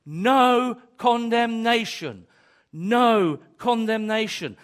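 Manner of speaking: slow, loud, firm declaration; declared aloud. Shown as a demonstration. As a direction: proclaim it out loud like a vow. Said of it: "Maybe you need to say it audibly".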